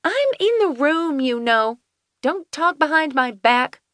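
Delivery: high, indignant snap; snapping Finley. A narrator's reading. Finley snaps at nurse and Kelsey, high and indignant. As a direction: bite back at the gossip. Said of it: "Finley snapped".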